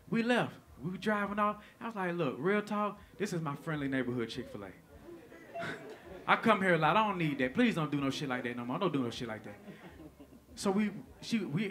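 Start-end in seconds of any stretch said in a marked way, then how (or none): 2.1-9.6 low, softened appeal, lightly acted; quiet, earnest plea. Asking her to behave at the restaurant, low-key pleading. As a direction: take them aside and ask softly.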